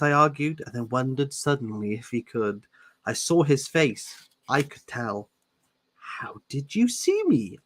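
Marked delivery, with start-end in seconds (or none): 6.2-7.6 hushed whispered question; breathless whisper to Edward. Acted. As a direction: whisper it secretly.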